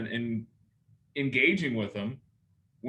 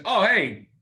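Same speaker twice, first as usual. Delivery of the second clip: bright, higher, louder happy "hey"; excited greeting; 6 semitones higher, 6 dB louder than usual. Retold or imitated. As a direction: greet a friend you're glad to hear from. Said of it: "get excited because".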